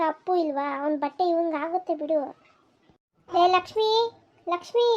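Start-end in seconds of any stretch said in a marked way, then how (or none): 3.3-3.9 calling out. Acted. Calling the daughter-in-law from afar. 4.5-4.9 calling out. Acted. Calling the daughter-in-law again.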